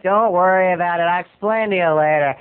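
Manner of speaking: a hint of a buddy's odd way of talking; Dan Raphael. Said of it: "That's kinda how Dan Raphael talks".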